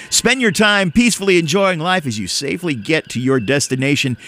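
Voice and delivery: lightly hammed-up announcer read with swinging pitch; radio voice. Host reads safe-driving advice to listeners in radio voice. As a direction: deliver it as a public service announcement. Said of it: "I'm gonna do it in my radio voice".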